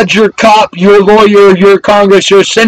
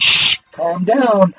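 mock hushing whisper; 6 dB quieter, slower than usual. Mocking the officials' hushing.

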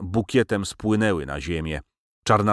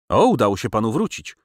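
politely pleased; 5 semitones higher, 4 dB louder than usual. Acted. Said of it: "ucieszyłem się uprzejmie".

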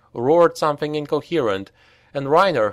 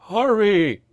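high, panicked wail; 9 semitones higher, 3 dB louder than usual. A narrator's reading. Oscar begs the group to run, wailing. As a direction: wail at them to hurry. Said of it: "wailed Oscar".

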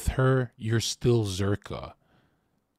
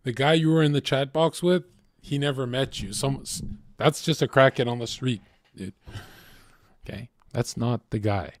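a hint of a blunt sponsor, faster and pushier in spots; lightly voiced sponsor; 3 semitones higher, faster than usual. Sponsor telling the newcomer he was scammed, a lightly voiced firm scolding. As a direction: play the tough-love mentor setting him straight, only lightly. Sponsor lecturing him on the beach.

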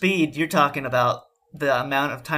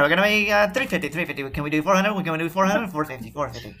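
auctioneer voice. Pretend. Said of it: "You gotta sound like an auctioneer".

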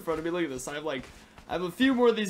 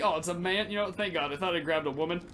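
normal talking voice

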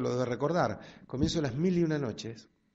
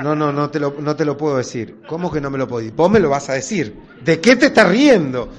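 rising argument; 12 dB louder than usual. Acted. Wife demands to know why husband laughs, shouting. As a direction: push him until you're shouting. Couple arguing over his laughter.

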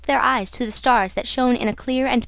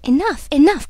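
higher, louder outcry; cried out; 4 semitones higher, 5 dB louder than usual. A narrator's reading. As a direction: cut in with an urgent cry. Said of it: "cried Raoul".

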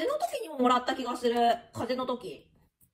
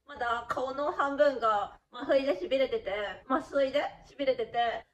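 numb mouth, gauze bitten down. Real, not acted. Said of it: "あの、うまく話せないんですけど".

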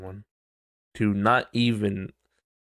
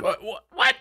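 exasperated demand. Retold or imitated. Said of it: "It's like".

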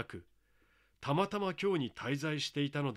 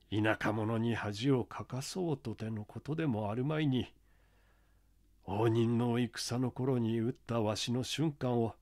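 put-on an old country mask carver speaking his mind; creaky wise old man; 2 semitones lower than usual. (低めの声で語る田舎の老面打ち)

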